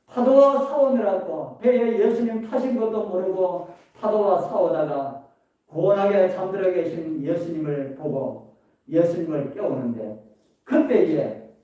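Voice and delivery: ordinary talk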